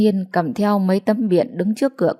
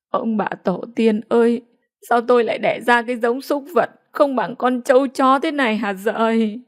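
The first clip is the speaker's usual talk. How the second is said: lamenting wail; 3 semitones higher than usual. Acted. Grieving mother crying out to the ancestors about her son, wailing. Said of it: "thẫn thờ ngồi bệt xuống đất khóc hờ".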